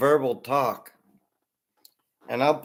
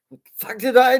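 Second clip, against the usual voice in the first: mock outrage; 10 semitones higher, 8 dB louder than usual. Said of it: "And you're like".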